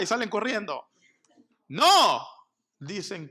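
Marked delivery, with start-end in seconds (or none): 1.7-2.2 a loud, high flat denial; emphatic no. Real, not acted. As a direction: cut the idea off hard.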